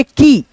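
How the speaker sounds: "की" held on a long ee; drawn-out vowel. Shown as a demonstration. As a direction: stretch the ee of "की" as a teaching model. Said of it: "ध्वनि को खींचेंगे". ("की" को खींचकर बोलें)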